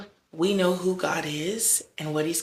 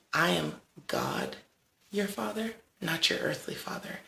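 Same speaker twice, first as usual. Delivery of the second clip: gentle, hushed; 5 dB quieter than usual. Retold or imitated. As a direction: speak it softly as God would. Voicing God in prayer.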